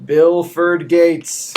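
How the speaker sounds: slow, dramatic name call; drawn-out hype call. Real, not acted. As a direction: stretch the name out for luck. Dramatic dice roll call.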